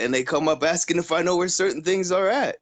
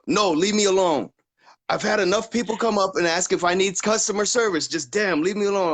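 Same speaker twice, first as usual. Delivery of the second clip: higher, fed-up mock grumble; grumpy customer; 5 semitones higher than usual. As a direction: push the clerk away, sick of being asked. Voicing a rude customer.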